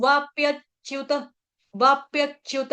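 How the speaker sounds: "वाप्यच्युत" with a doubled च; double च. Shown as a demonstration. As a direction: stop on यच, then release "च्युत" in "वाप्यच्युत". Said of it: "मेरे double च आ रहे हैं". ("वाप्यच्युत" में दो आधे च)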